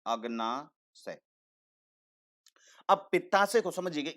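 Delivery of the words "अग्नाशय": slow spelling out. Shown as a demonstration. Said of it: "और दूसरा वाला कौन सा है भाई".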